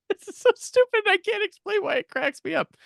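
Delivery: giggling helplessly while explaining; laughing. Real, not acted. Host cracking up about a stupid scene, real giggling.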